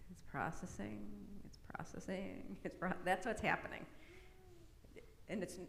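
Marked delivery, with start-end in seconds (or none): 0.1-2.9 imitating a loading computer. Shown as a demonstration. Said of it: "the little blue circle on your computer go like this".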